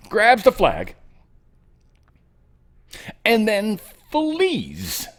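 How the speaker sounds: milk the drama of the flag grab; hammed-up suspense narration; dramatic retelling. Dramatic retelling, high and slow.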